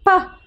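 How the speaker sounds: "Pa" as one short popped syllable; letter-sound demo. Shown as a demonstration. Teacher cueing the action for the sound, short popped "Pa". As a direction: pop out a crisp "Pa". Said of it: "whenever we say pa".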